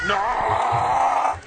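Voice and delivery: high shouted no. Acted. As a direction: yell it out sharply. Krupp's outburst.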